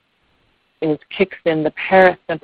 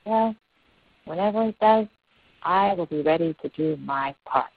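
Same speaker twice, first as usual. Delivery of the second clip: small bird's reply, settling to usual pitch; little bird; 5 dB quieter than usual. Acted. Little bird answering the laughing elephant, lightly voiced and soft. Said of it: "And the little bird says".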